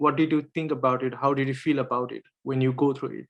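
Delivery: normal talking voice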